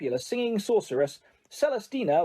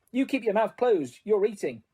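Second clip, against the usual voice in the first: snapped; 4 semitones higher than usual. Acted. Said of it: "Missus Weasley snapped".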